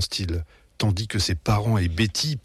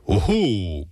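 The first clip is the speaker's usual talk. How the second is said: croaky little "oh oh" from dad; croak. A narrator's reading. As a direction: croak it out briefly. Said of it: "croasse papa". (petit croassement de papa)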